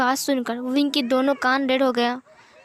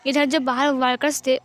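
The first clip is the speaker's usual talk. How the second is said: ordinary delivery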